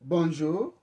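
teacher greets the class loudly. Shown as a demonstration. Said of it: "Nataka urudie neno".

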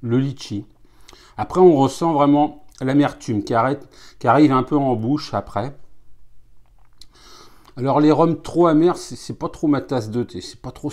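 fingers against lips; partly muffled by hand; talking behind hand. Real, not acted. Seen 4: Hand rests over chin and lips while speaking, partly covering mouth.

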